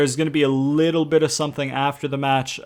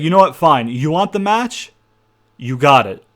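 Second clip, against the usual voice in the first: fed-up snap; 3 semitones higher, 6 dB louder than usual. Retold or imitated. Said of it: "he kinda snaps".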